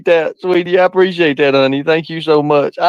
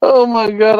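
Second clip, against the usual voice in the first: laughing; 2 semitones higher than usual. Real, not acted. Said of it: "I ain't laughed like this".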